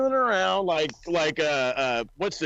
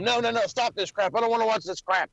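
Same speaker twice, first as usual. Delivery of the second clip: mock screaming; 5 semitones higher, faster than usual. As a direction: play at screaming to stop the show. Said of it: "I wanna try that".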